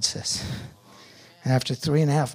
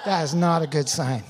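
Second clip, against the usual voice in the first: laughing; 2 semitones higher than usual. Real, not acted. To the congregation, laughing at his own line. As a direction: repeat it through a real laugh. Repeats punchline while laughing.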